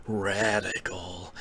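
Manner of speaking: slow, low and soft eighties dude; totally eighties voice. Retold or imitated. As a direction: draw the word out like eighties slang. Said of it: "in, like, a totally eighties voice".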